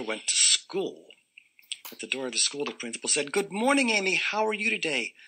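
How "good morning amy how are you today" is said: sweet greeting. Acted.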